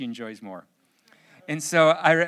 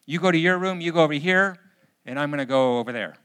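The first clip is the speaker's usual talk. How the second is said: louder parental orders; stern edict; 7 dB louder, faster than usual. Retold or imitated. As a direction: lay down the law like a fed-up parent. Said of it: "instead of just making edicts".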